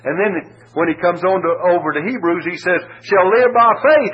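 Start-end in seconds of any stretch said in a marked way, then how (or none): 3.0-4.1 much higher and louder, "faith" punched; stress on faith. Shown as a demonstration. Preacher building to the climax, loud stress. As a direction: ring out "faith". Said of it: "It's faith we're concerned with".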